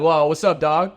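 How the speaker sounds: casual, laid-back adult hello; low-key greeting. Shown as a demonstration. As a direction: toss it off like greeting a buddy. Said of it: "in no point do I ever talk".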